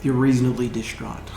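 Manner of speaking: soft, hesitant bard with understated sadness; forgiving bard. Acted. Bard accepts apology on a sad day, softly subdued. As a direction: quietly let the apology go, halting.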